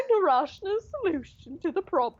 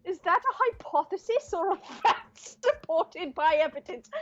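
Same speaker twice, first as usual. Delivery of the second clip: exaggerated incredulity; 4 semitones higher than usual. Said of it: "I'm exaggerating on purpose".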